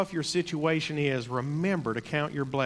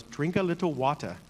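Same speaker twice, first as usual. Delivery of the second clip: put-on a light Jamaican accent. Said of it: "in his Jamaican accent".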